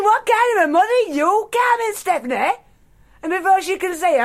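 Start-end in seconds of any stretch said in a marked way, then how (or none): 0.0-2.6 yelling. Acted. Furious mother yelling at her daughter across the table, angry. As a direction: yell it at your daughter. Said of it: "So I'm yelling".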